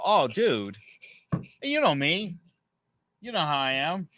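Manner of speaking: high, softened mock-innocent plea; retold sheepish appeal to a buddy; placating. Placating the angry neighbor.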